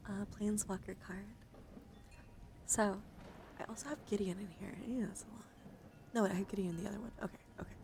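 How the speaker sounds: hushed, close whisper for a card showcase; ASMR whisper. Acted. ASMR creator whispering through her Magic cards, gentle whisper. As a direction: whisper as if lulling someone to sleep.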